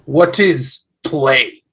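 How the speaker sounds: put-on slow, heavy foreign accent on What is play; puzzled Norseman; Viking accent. Viking ghost asks about plays.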